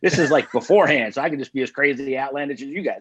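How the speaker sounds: usual speaking voice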